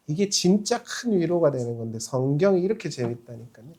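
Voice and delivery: ordinary talk, nothing marked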